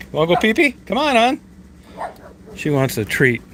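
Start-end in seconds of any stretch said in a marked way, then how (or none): 0.1-1.4 pet talk. Real, not acted. Coaxing Daisy out to pee, high baby talk. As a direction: coax the dog out sweetly.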